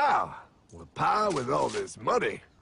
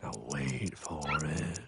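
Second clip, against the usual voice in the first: much softer, lower, drawn out; hushed suspense; 10 semitones lower, 6 dB quieter, slower than usual. Acted. Narrator shushes the hero, hushed suspense. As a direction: hush everyone and wait.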